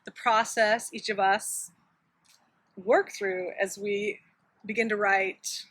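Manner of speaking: talking while chewing gum; words round a piece of gum. Real, not acted.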